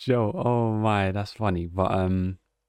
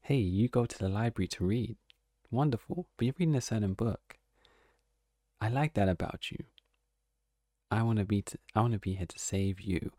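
mock romantic dialogue; 5 dB quieter than usual. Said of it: "he's gonna have dialogue saying".

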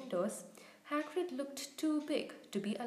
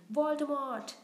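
loud, higher-pitched bellow; 4 semitones higher, 7 dB louder than usual. A narrator's reading. Harry shocking his crying friend out of tears, bellowing. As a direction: bellow the forbidden name defiantly. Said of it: "Harry bellowed".

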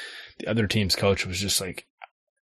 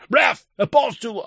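put-on kid complaint; 11 semitones higher than usual. Retold kid complaining to referee.

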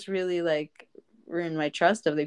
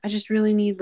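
hushed beggar; 4 semitones higher than usual. Retold or imitated. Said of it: "there's a guy that comes up and he's like".

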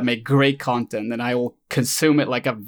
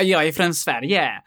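put-on Swedish voice; 4 semitones higher than usual. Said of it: "that's not my Swedish voice".

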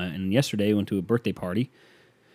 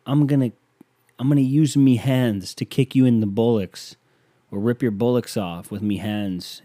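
lightly imitated Irish brogue, punching the odd word; mock Irish accent; 3 dB louder than usual. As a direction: tease a fighter's Irish accent. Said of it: "You got that silly little accent".

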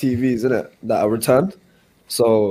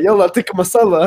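customer voice; 8 semitones higher, 5 dB louder than usual. Retold or imitated. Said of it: "He's like".

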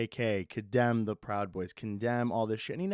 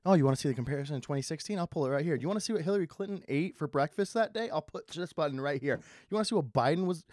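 imitated TV analyst; 4 semitones higher, much faster than usual. Imitating an eager TV election analyst.

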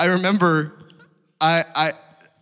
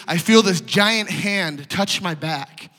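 usual speaking voice

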